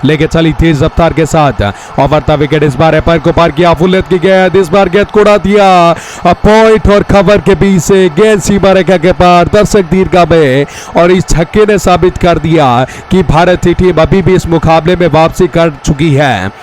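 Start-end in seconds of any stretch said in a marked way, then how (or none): 3.7-13.2 excited commentary. Real, not acted. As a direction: lift the voice as the ball sails away. Six hit in tight chase.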